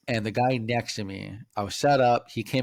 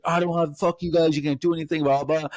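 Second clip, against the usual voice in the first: mock ranting, pitched up; defiant protest; 4 semitones higher than usual. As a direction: imitate a vendor arguing back at security. Acted quarrel with security.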